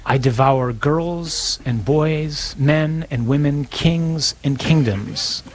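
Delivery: slow, deliberate lion's answer; lightly voiced lion. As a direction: let each phrase land slowly, as a hint of the lion.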